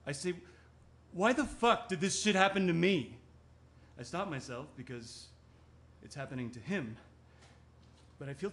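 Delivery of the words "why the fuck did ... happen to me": angry protest. Acted. Acted angry quote, then stops herself.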